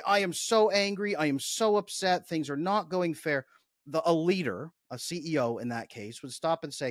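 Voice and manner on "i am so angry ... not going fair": mock angry employee, higher and louder; upset employee. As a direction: play a worked-up employee venting, a touch overdone. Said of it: "And they say".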